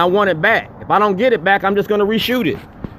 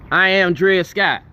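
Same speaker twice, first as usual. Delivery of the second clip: slow, weighty, each word set down; slow declaration; slower than usual. Real, not acted. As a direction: proclaim it like a verdict.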